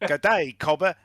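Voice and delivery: mock Australian accent. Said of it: "Lost my accent there a minute".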